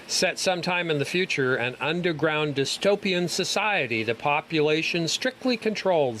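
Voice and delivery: lively read-aloud of a film blurb; synopsis read-out. Acted. Panelist reading a dystopian film's plot to co-hosts, synopsis read-out. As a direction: read it out like a trailer summary.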